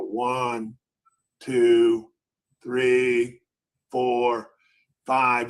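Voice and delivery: counting slowly with pauses between numbers; counting out delay. Retold or imitated. Trader counts while waiting on the clerk, slow count. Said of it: "I would always count".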